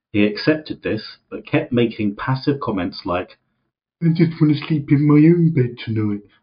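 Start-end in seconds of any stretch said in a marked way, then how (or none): 4.0-6.2 strange put-on high, belligerent, defiant child voice. Retelling a man's passive comment after being told no, in an unidentified put-on accent. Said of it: "I don't know what the accent was there".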